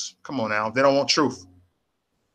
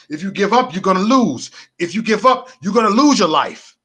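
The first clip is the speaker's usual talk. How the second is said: raised, urgent warning to the viewers; rally the viewers not to quit, louder; 5 semitones higher, 3 dB louder than usual. Real, not acted. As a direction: call out the warning, rising on "give up". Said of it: "I'm urging y'all".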